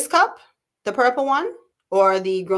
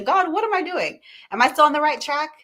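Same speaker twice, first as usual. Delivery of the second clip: pleading prayer; 9 semitones higher, 4 dB louder than usual. Retold or imitated. Retold prayer to God.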